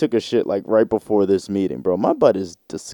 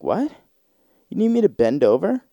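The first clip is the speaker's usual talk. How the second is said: mock shock; 7 semitones higher than usual. Shocked actress repeats demand.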